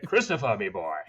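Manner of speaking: a light imitation of dad calling you; dad's voice. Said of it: "he'd say".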